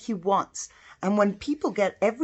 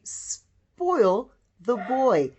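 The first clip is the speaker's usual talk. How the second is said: slow reading; much slower than usual. Shown as a demonstration. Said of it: "you would say".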